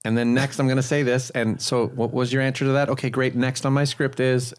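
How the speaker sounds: mechanical reading off a script; robotic script reader. Retold or imitated. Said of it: "I need to read the words on the script".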